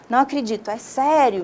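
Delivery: mildly surprised, half asking, half exclaiming; demonstrating a surprised question; surprised exclaimed question. Shown as a demonstration. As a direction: ask it with a touch of disbelief. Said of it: "estou perguntando, né, eu estou exclamando, eu estou surpreso".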